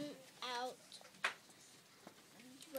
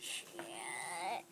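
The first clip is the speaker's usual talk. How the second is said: zombie; 4 semitones lower than usual. Pretend. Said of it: "read like a zombie then".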